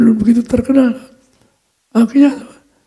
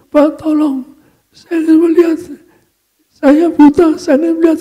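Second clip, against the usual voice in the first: higher-pitched, imploring blind man; insistent plea; 5 semitones higher than usual. Retold or imitated. Blind man begging the pastor to pray for his sight, insistent plea. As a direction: beg for help, voice lifted.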